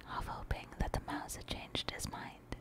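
whispered audiobook narration, unhurried and hushed; bedtime-story whisper; whispered story reading. A narrator's reading. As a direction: read the tale aloud entirely in a whisper.

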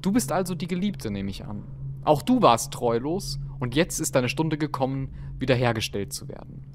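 aristocratic german. Acted. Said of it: "Mit vornehmer Stimme hob sie an".

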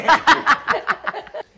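high laugh. Real, not acted. Burst of laughter.

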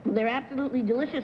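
talking through a mouthful of cookie; words round a bite of food; mouth full. Real, not acted. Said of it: "with your mouth full".

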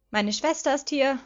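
surprised echo of the news; surprised question. A narrator's reading. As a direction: ask in surprise. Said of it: "fragte ich".

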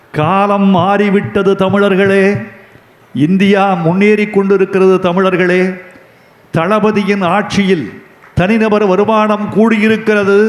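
measured, emphatic platform speech; public oratory. Real, not acted. Orator telling Tamils that times have changed, public oratory. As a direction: proclaim it to the crowd in sustained phrases.

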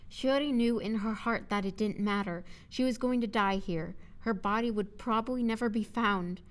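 solemn, measured audiobook narrator; clearly paced dramatic prose reading; story narration. A narrator's reading. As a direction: narrate the doomed moment evenly.

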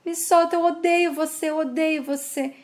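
lightly acted feverish distress, repetitive and insistent; feverish delirium. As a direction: beg to be let go, as if delirious. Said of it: "Estela continua delirando de febre".

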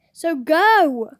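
loud eager shout. Real, not acted. Urging her friend to go check, shouting. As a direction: yell it at her to hurry.

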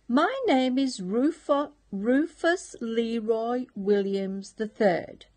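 a lightly voiced eager young pig; a hint of a keen young pig; eager little pig. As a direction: announce yourself proudly like a little piglet. Rufus voiced in bedtime story.

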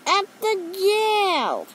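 high, drawn-out answer; exasperated high-pitched caller; alarmed caller. A narrator's reading. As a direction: call it out high and slow.

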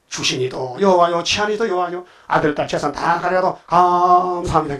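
slow, drawn-out quoted thanks; imitated devout confession, lingering on key words; retold praise. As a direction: stretch the words in mock-solemn recital. Devil reports Job's praise of God.

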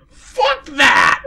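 very high shouted curse; loud outburst. Real, not acted. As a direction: blurt it out. Outburst joke.

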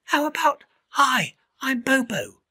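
high, slow coaxing bird voice; Iris suggesting. Acted. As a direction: spell it out slowly for him. Iris coaching Bobo.

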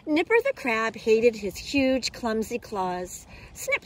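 lively, expressive picture-book reading; story narration for children. A narrator's reading. Teacher reading a crab story to boys and girls, animated storytelling. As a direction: read it out clearly with playful emphasis.

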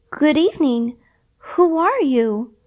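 mild surprise; surprised. Acted. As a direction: timidly ask the stranger. Cinderella surprised by stranger.

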